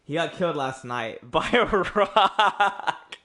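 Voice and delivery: hesitant fib told nervously. Acted. Christopher nervously lies to the mayor about the dead companion. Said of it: "in a nervous voice".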